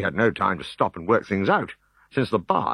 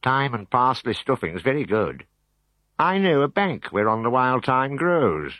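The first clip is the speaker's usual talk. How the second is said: helpful; 5 semitones higher than usual. Acted. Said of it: "he helpfully added".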